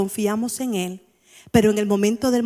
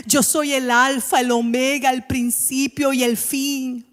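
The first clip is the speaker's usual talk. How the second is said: reassuring God. Acted. God's reassuring words from scripture.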